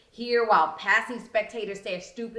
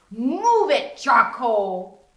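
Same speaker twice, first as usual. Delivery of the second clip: mean taunt; 2 semitones higher, 8 dB louder, much slower than usual. Acted. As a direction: bark it at her with contempt. Bully Regina insults narrator.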